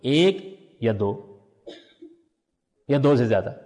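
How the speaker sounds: amused reversed order. Shown as a demonstration. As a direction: say the backwards version, laughing at it. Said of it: "اچھا، الٹ کے بولیے".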